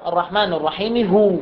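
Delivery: "هو" at the end stopped as a long "huu", with no final a; pausal stop on huwa. Shown as a demonstration. Teacher showing students how to pause on the word. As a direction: stop on "هو" by lengthening the u. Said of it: "كيف أتوقف عليها؟".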